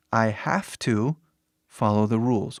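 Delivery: "I have to" with "have" said "haf"; "I have to" said as "I hafta". Shown as a demonstration. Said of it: "Ele vai de V ... para F".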